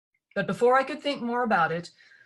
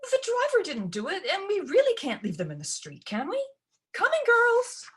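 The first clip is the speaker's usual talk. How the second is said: higher, fluttery coaxing; coaxing stepmother; 12 semitones higher than usual. Acted. Stepmother coaxes Ella to fetch the bags, higher voice. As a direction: wheedle Ella into the chore.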